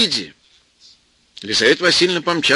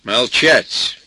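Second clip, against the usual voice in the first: stern; 4 dB louder than usual. Acted. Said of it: "строго сказала".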